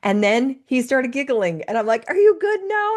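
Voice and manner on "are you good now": sing-song check-in. Retold or imitated. Mother voiced asking her son.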